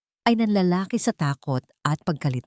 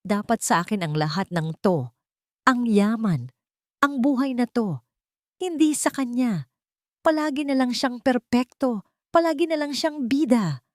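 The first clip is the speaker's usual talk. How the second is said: rising higher, bitter and spiteful; shrill venom; 6 semitones higher than usual. Acted. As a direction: climb in pitch as the envy pours out. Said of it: "matinis at puno ng lason".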